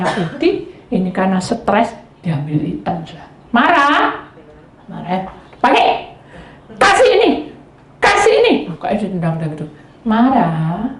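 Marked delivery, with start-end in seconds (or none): 5.6-8.5 high, loud barking order; mock angry demand. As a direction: snap it out. Angry husband demanding socks.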